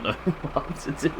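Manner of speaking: breaking into laughter; laughing. Real, not acted. Streamer recalls friend spinning like an idiot, laughing.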